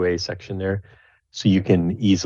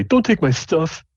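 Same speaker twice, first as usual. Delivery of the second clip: high, fast, nervous halfling whine; a bullied halfling pleading with the orcs; 10 semitones higher than usual. Acted. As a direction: rush the words out, scared and fed up. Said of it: "he says nervously".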